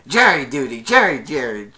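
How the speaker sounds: Grinch impression. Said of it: "Something like that I'm trying to do".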